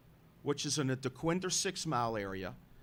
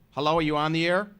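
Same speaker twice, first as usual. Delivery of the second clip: calling out; 2 semitones higher, 10 dB louder, faster than usual. Real, not acted. Host calling out to silent caller.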